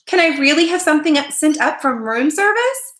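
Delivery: put-on high-pitched excited boy's question; delighted child asking, pitch way up; brightened. A narrator's reading. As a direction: perk up with hopeful wonder. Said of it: "Keith brightened".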